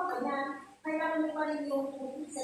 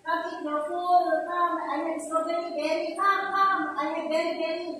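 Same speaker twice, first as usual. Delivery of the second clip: put-on coaxing baby talk; 3 semitones higher, 5 dB louder than usual. Shown as a demonstration. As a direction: lure a baby to eat with a sing-song call. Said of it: "Ano ba yung mga halimbawa ng baby talk?".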